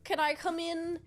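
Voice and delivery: polite visitor. Retold or imitated. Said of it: "She's like".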